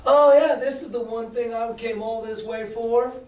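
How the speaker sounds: grab the gold and crow over it; excited pirate. Retold or imitated. Pirate finding gold, mock gleeful with a laugh.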